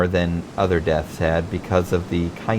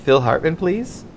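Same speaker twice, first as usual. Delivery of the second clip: high, nervous phone voice trying to hide a tremble; shaky teen hiding his nerves; quavering voice; 9 semitones higher than usual. Retold or imitated. Nervous teen calling his hero, quavering voice. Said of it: "trying to disguise my quavering voice".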